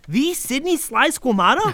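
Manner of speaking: fanboy gasp of recognition; starstruck awe. Acted. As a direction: kid realizing his hero is real, thrilled. Meeting a comedy legend.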